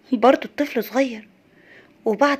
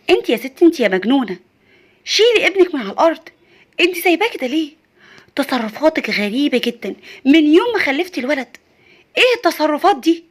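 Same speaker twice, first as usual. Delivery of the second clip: scolding mother-in-law; 3 semitones higher, 3 dB louder than usual. Acted. Mother-in-law scolds the new mother for leaving her baby on the ground, sharp and raised. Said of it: "ماما قالت لها".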